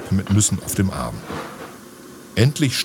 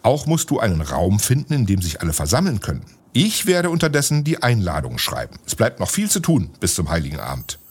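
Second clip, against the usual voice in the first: a wise magician urging everyone to believe; lightly voiced wizard, encouraging; kindly wizard; 2 semitones higher than usual. Wizard addresses the figures.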